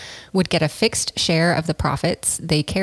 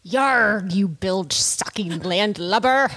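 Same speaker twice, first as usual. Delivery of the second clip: put-on pirate accent; 2 semitones higher, slower than usual. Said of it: "speaking in a slightly Irish pirate accent".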